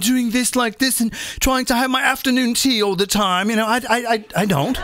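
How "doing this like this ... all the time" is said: light posh British put-on accent; mock British accent. Joking about not acting British, a light mock British accent. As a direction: play the tea-sipping Brit in British English. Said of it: "I'm British American".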